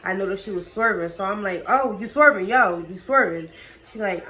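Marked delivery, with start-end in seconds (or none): 1.7-3.5 alarmed call out. Retold or imitated. Warning driver she's swerving.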